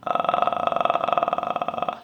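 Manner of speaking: soft creaky fry with no voice; unvoiced rattling vocal fry. Shown as a demonstration. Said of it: "é só essa fritura".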